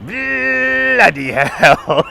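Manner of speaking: high, very drawn-out British exclamation; hammed-up British outburst; mock British cursing. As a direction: stretch the first syllable in comic British.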